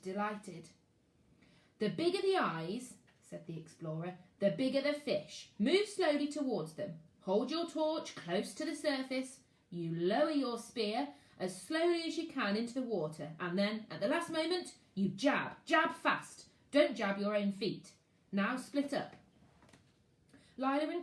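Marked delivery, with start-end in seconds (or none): 1.8-2.9 a touch higher, brisk urging; lightly voiced explorer. Explorer calling the children into the lake, brisk urging. Explorer teaching spear fishing. 4.4-19.2 a touch higher, brisk urging; lightly voiced explorer. Explorer calling the children into the lake, brisk urging. Explorer teaching spear fishing.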